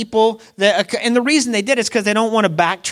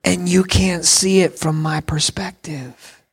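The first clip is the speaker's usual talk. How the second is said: hushed, unhurried calm; half-whispered, patient explanation; Jesus at the stop sign. Retold or imitated. Pastor voicing Jesus to the congregation, hushed and calm. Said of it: "And he's like".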